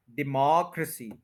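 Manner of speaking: डेमोक्रेसी as di-MOCK-ruh-si with a tiny ruh; short ruh. Shown as a demonstration. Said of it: "र को बहुत कम बोला".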